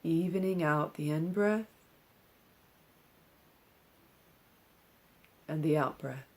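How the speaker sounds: calm, measured meditation instruction with long pauses; unhurried meditation-teacher delivery; guided meditation. Acted. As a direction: guide them gently into stillness, leaving space between phrases. Leads a seated breathing meditation.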